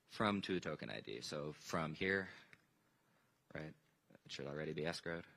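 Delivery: wired and jittery from coffee; too much coffee, jumpy delivery. Real, not acted. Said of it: "too much coffee, very jittery".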